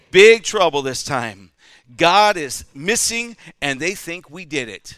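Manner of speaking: put-on loud, slow, panicked kid; frightened boy. A narrator's reading. Scared boy tells his older brother, panicked and loud. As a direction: blurt it out in terror.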